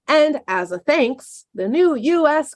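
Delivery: slow, dry sarcastic "as a thanks". Acted. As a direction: say it with heavy irony. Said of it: "That was sarcastic".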